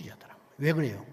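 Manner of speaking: usual speaking voice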